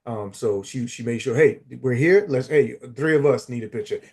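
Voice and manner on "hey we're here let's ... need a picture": louder, higher bossy call, playful; imitating friend clearing the photo; mock bossy shout. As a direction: shoo the stranger off, half joking. Voicing her friend shooing a stranger.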